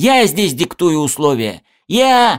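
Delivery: high, drawn-out, in-your-face yell. A man half rises from his seat and speaks into the narrator's face, yelling. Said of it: "заорал он мне в лицо".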